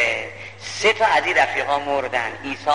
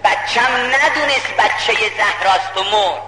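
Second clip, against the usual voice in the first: grieving lament; 5 semitones higher, slower than usual. Retold or imitated. Grieving father's climax in lament.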